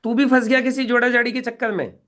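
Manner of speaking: put-on a scoffing, teasing older sister; mocking sister. Sister mocks cousin pitching a joining scheme, scoffing. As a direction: brush him off with a mocking laugh in the voice. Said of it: "ये बताऊं".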